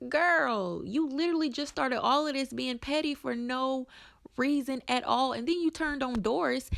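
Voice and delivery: sassy retort. Retold or imitated. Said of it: "And I'm sitting there like".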